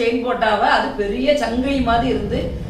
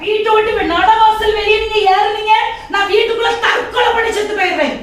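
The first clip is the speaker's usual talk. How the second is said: screaming, much higher and louder; furious threat; 8 semitones higher, 5 dB louder than usual. Acted. Wife threatening her husband as he leaves, frantic scream. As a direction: scream the threat to stop him leaving.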